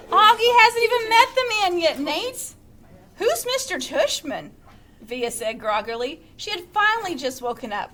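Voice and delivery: expressive read-aloud to a class; story narration. A narrator's reading. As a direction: read the novel to the students. Reads novel aloud to class.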